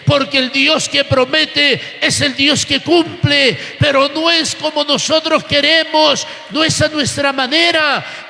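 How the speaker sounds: rhythmic, building sermon cadence; fervent preacher gathering force; impassioned preaching. Real, not acted. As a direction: drive home each parallel line with conviction.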